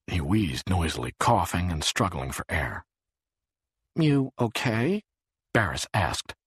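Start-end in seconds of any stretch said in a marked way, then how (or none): 3.9-5.0 slow, gently concerned question; lightly voiced worry for a friend. A narrator's reading. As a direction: check on him with a touch of concern. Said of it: "in tones of concern".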